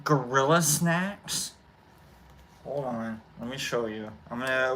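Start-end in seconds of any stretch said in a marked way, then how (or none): 0.0-1.5 Gorilla Snacks stretched out slowly; slow, lingering Gorilla Snacks with a lift at the end; drawn out. Shown as a demonstration. Vlogger presenting his dab strain, drawn out. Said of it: "I gotta say it like that".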